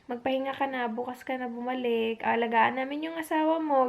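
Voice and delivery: a nurse gently sending the worried wife home to rest; kind nurse. Retold or imitated. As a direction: soothe a tired wife kindly. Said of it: "Sobrang babait ng mga nurse".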